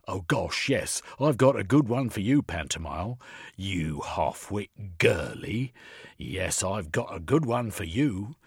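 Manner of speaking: smug, taunting boast; gloating inspector. Acted. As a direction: relish his victory. Inspector gloating over captive.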